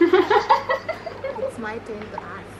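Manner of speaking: slow, loud, laughing tease; teasing announcer. Real, not acted. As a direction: drag it out like a game show host. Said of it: "playful show host announcement".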